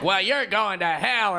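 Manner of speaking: drawn-out mock condemnation; slow, slightly slurred lady impression; lightly drunk lady. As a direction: imitate a tipsy heckler, slowly. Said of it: "Did she do it with a drunk voice?".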